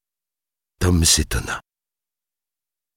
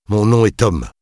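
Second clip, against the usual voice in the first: tight, raised, firm introduction; tense; 8 semitones higher, 5 dB louder than usual. A narrator's reading. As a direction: state it tensely, pitched up. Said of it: "dit-il d'un ton crispé". (ton crispé, voix tendue)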